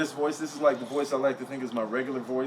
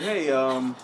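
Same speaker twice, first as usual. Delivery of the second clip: lightly put-on business voice; measured, formal phone request. Caller asking for his deposit back, mild business voice. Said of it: "I'm trying to use my business voice".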